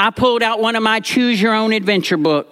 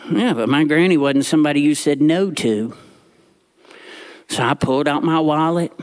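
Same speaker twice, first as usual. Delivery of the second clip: usual speaking voice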